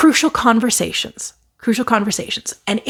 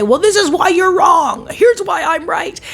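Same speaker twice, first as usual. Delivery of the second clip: higher and louder, shouting back; mock-argue to prove them wrong; a hammed-up shout of I'm right; defensive retort; 7 semitones higher, 3 dB louder than usual. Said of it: "jump in and say".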